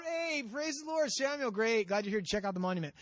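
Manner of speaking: lightly hammed-up hello; mock-cheery greeting. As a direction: play a glib, glad-handing host. Saul breezily greets Samuel, acted.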